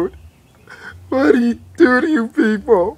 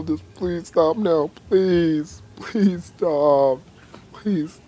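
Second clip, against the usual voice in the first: fading plea; 5 semitones lower, 5 dB quieter, slower than usual. Acted. Asking people to leave Punxsutawney Phil alone, fading mock-tearful plea. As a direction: lower and softer, begging quietly, fading out.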